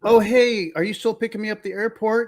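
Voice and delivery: high, quick, put-on friendly opener; wrong-number scammer. Scammer texting a stranger about the airport, put-on chirp. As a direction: imitate a scammer feigning familiarity. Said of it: "or they're like".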